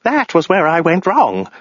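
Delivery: high, drawn-out crazed cry; yelling madman. Acted. Madman in the tank lamenting his mistake, high crazed yell. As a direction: wail it out high and slow like a madman. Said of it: "the madman yelled".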